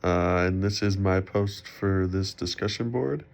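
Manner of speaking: sick, muffled speech; muffled voice from a cold. Real, not acted. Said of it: "sorry if I sound a little muffled. I'm still a little sick".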